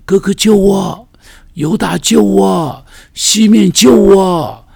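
put-on a boy screaming for his brothers to save him; desperate calling for help. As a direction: shout back to the brothers for rescue. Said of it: "一定回头一直大声喊着说".

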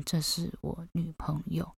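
小声地说：这是我女朋友; very quietly. Retold or imitated. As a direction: hush it as if the girlfriend is at the door. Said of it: "非常小声".

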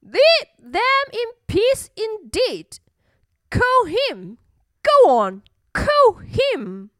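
high, taunting echo; mocking bully bird. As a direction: throw the threat back in a high voice. Bully mockingly repeats Elmer's warning.

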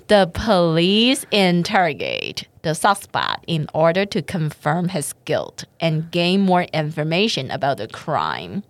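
reading example sentence. Shown as a demonstration. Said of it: "我们一起来看一下例句".

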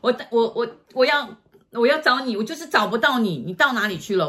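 high, choked, stammering through tears; tearful plea. Retold or imitated. Girl tells teacher she searched for years, tearful. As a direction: pour it out between sobs.

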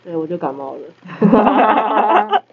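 muffled behind a mask; talking through a mask with a cold; through a face mask. Real, not acted.

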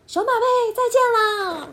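mom's sweet goodbye. Acted. Mom sends her little bear off with a high coo. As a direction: coo it like a doting mother. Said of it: "妈妈说".

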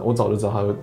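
normal talking voice

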